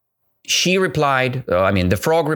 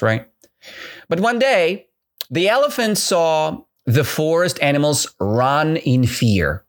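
ordinary talk, nothing marked

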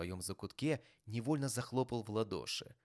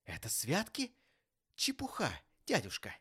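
high, disbelieving echo; incredulous questioning; 7 semitones higher, 3 dB louder than usual. A narrator's reading. Nephew questioning his uncle's dismissal, incredulous. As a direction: query it in pitched-up disbelief. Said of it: "переспросил племянник".

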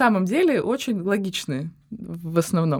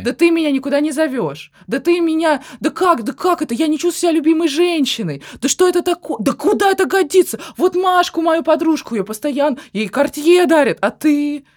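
higher, louder accusing whine at her man; hammed-up jealous girlfriend scolding her boyfriend; nagging girlfriend rant; 6 semitones higher, 4 dB louder than usual. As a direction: play the wounded partner who feels unloved, loud and shrill with complaint. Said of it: "Я прихожу к тебе и начинаю".

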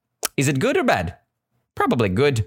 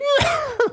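very high imitated horse whinny; whinny and laugh like a horse. Shown as a demonstration. Teacher showing the beast laughing like a horse, whinnying. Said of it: "so whinnying like".

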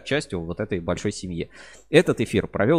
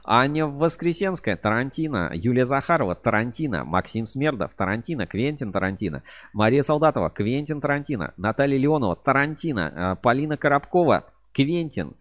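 hyped giveaway announcement; 5 semitones higher than usual. Real, not acted. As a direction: call out each name like prizes. Reading out contest answers excitedly.

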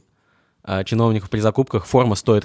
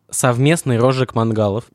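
dictating. Shown as a demonstration. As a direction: read it out like dictation. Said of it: "кавычки открываются".

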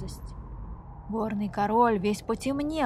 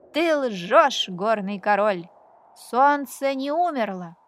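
громкий смелый вызов мальчика; выкрикни дерзко и смело; крик; 6 dB louder than usual. Acted. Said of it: "крикнул". (громкий дерзкий крик)

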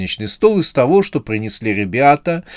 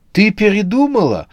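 delighted; 9 semitones higher than usual. A narrator's reading. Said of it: "обрадовался Андрей".

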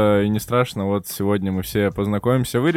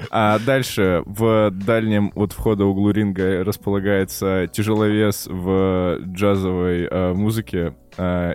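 ringmaster; slower than usual. Pretend. Boxing ring style guest introduction.

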